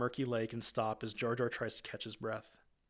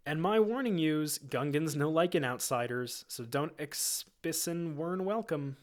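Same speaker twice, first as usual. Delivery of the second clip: high, warning Gungan voice; Jar Jar voice; 3 semitones higher, 4 dB louder than usual. Acted. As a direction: warn the Jedi as a goofy Gungan.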